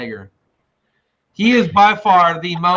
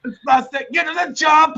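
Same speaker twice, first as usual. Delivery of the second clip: Arnold impression; 9 semitones higher, faster than usual. Quoting Arnold's escape line to a friend. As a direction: bark it like an action hero.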